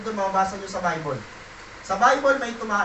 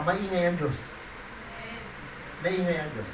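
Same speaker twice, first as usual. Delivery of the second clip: fading repetition; 4 semitones lower, 8 dB quieter than usual. Real, not acted. Repeated phrase fades softer.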